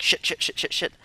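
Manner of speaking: whispered panicked swearing; muttering to himself after finding the files. Retold or imitated. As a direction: hiss it under your breath in panic. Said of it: "I was like".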